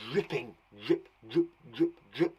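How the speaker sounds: short, low repeated drips; dripping water. Shown as a demonstration. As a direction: let each drip fall like water from a tap. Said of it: "sound when we say these words that sounds like water".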